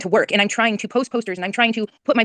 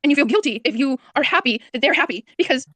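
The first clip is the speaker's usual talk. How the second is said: higher, pleading mother begging to be understood; distressed pleading; 3 semitones higher than usual. Real, not acted. Missing boy's mother begs host to imagine, distressed. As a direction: plead with rising desperation. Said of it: "I'm so hostile".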